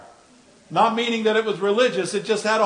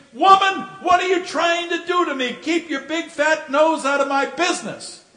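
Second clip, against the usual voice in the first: retold angry scream; 7 semitones higher than usual. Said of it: "looks at his wife and screams".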